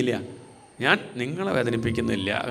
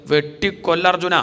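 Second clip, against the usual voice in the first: higher, drawn-out cry; mock fierce command; 4 semitones higher, 4 dB louder, slower than usual. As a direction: cry out an imagined order to kill. Imagined furious command to Arjuna.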